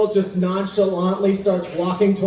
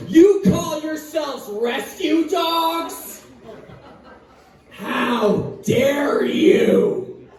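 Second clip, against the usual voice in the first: indignant rescue dog; 5 semitones higher, slower than usual. Pretend. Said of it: "I just barge in and go".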